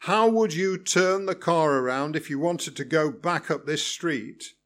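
spoken through gritted teeth; through clenched teeth. Acted. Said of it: "he said through clenched teeth".

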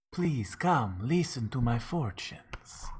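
soft, slow fortune teller call; lightly voiced beckoning old woman; mock mystical. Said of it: "beckoning to people for fortunes".

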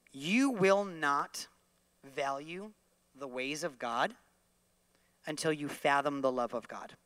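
each phrase set apart by long pauses, slow; slow emphatic teaching line. Shown as a demonstration. Preacher giving a line to repeat, slow and measured. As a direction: lay it out slowly for them to repeat. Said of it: "You're gonna repeat that after me".

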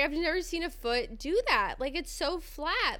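retold astonishment, voice lifted; freaked-out nurse. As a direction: marvel in mock disbelief. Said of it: "your nurse kind of freaked out".

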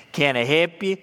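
lightly voiced country uncle offering help; easygoing, mock-helpful country question; folksy uncle talk. Uncle pulling strangers' leg, folksy offer of help. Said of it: "that's how I talk".

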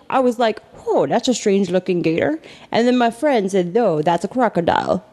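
lightly voiced park ranger. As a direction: retell it with a hint of a ranger. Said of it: "is that your ranger voice".

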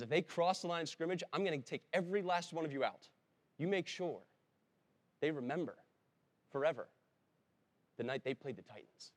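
rally the team as if ready to explode; hammed-up coach yelling at his defense; fired-up coach. Coach threatening his defense, quoted.

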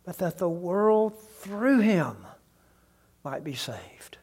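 slow, then down to a whisper; fading to whisper. Real, not acted. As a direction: let the promise fade into a whisper. Closing the verse softly.

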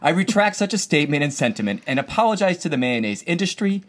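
solemn official apology read aloud; formal statement. Pretend.

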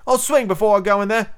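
high, forceful refusal; dogged. A narrator's reading. Starkey refusing to enter the cabin, dogged. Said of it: "replied Starkey doggedly".

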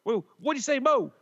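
put-on cheery British game-show host, English accent; a bubbly English co-host hollering a name; mock British host. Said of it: "with the English accent".

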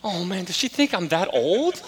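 laughing daughter. Retold or imitated. Daughter's retold worried question.

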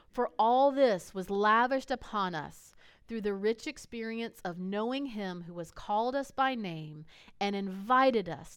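measured, emphatic Bible reading; scripture reading. Acted. Pastor reading Second Peter to the congregation, emphatic and measured. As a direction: read scripture aloud with weight on key words.

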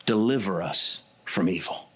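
low, calm, trusting prayer; restful trust. Retold or imitated. Preacher voicing the close of the Lord's Prayer, restful trust. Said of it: "with restful trust, yet confident hope".

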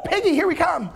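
a high whooping "Woo, piggy"; the demons rush into the pigs, whooping and high; gleeful demons. Retold or imitated. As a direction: cheer like a kid on a ride. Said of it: "I just imagine them going".

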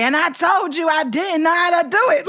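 high-pitched mock kid outburst; upset child imitation. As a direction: retell it as an exasperated boy, pitched well up. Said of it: "like that, right?".

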